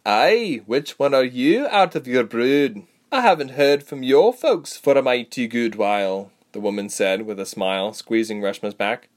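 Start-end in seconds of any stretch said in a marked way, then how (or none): 0.0-6.3 loud, higher rustic woman's voice; folksy older acquaintance, drawn out; hearty rustic huntress. A narrator's reading. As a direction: greet an old friend's child heartily. Narrator voices Sebra.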